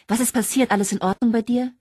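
a friend fearing bad news; alarmed worry. Sharon alarmed on phone.

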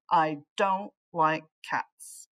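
put-on slow, low grumble of a grumpy old man. Grumpy Mister Flugel refusing the cat, slow and low. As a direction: drag out the refusal slowly.

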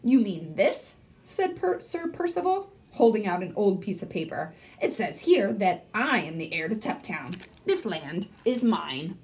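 lively read-aloud with voiced characters; story narration. A narrator's reading. Librarian reading to third graders, lively storytelling. Reads chapter book aloud.

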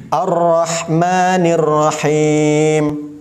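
slow, drawn-out tajwid chant; slow Quranic recitation. Shown as a demonstration. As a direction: recite it slowly, holding each letter.

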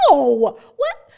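friend's loud, tender insistence; emphatic reassurance. Retold or imitated. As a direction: insist firmly, with love. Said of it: "And she said".

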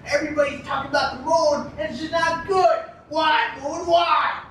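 rising, angry yelling at the sky; drunken rant. Acted. Drunk Bukowski berating the moon, angry drunken yelling. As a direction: rail at the moon like a furious drunk.

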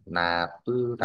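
"na bư tả" slowly, "na bư" held on level tones. Shown as a demonstration. Teacher explaining tone marks to a student, level tone. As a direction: model "na bư tả" slowly with level first syllables. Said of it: "huyền ngang lên thành".

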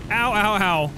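loud sharp yelps; pained yelps. Real, not acted. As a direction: yelp in sudden pain. Burned by fire.

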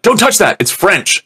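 put-on high, warning kid's voice, pitch jumping up; farmer kid voice. Retelling a movie kid scolding a friend, in a high mock kid voice. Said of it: "the farmer kid's just like".

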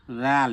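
রাল begun with a soft voiced th, Arabic dhal; lisped, gentle dh opening রাল; soft consonant. Shown as a demonstration. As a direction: say রাল softly with tongue at the teeth. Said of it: "নরম হবে".

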